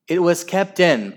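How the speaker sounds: high, loud objection; protest. A narrator's reading. Henry disputing the decision, loud protest. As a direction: protest it indignantly. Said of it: "protested Henry".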